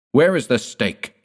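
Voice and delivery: high, loud angry demand; mild hammed-up furious cry. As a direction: cry it out in fury. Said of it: "he cried".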